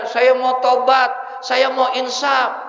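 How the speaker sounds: pleading. Retold or imitated. Young man gripping the ustadz's hand, begging loudly. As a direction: beg for help, pressing each word. Dia pegang tangan saya kenceng banget.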